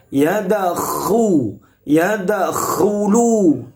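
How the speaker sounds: "yadakhulu" with a rough, rasping "kh" from the throat; throaty kha. Shown as a demonstration. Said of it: "sifat ngoroknya". ("kh" pada "yadakhulu" dibaca mengorok)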